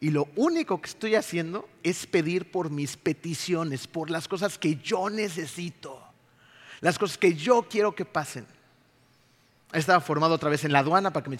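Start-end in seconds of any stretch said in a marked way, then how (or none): 0.0-8.5 ironic. Retold or imitated. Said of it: "Irónicamente dije".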